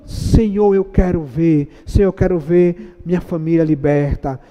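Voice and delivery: earnest, softening prayer; sample prayer. Shown as a demonstration. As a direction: show how to pray specifically. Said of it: "tem que ser específico".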